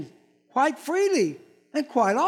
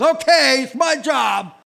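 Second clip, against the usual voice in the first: mock bossy wife; 2 semitones higher, 5 dB louder than usual. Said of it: "the woman goes".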